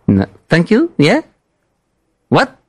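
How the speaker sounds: put-on confused French-accented English; mock broken English. Prank caller confused about rooms, French-accented English. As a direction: fumble the words like a lost tourist.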